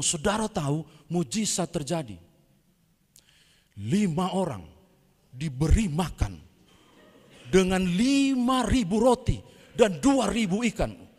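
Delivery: gabbling preacher swept up in the story; fast-talking preacher slip. Retold or imitated. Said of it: "Saking cepatnya dia ngomong".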